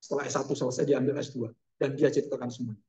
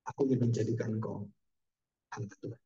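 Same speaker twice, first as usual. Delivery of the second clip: voice of God; 6 semitones lower, 7 dB quieter than usual. Acted. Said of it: "seolah Tuhan mengatakan".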